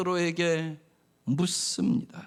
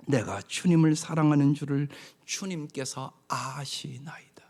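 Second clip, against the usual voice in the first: hushed whisper; 3 semitones lower, 3 dB quieter than usual. Acted. Pastor voicing sorrowful Peter to the congregation, hushed whisper. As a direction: whisper it like a grieving admission. Peter's grieved answer, softened.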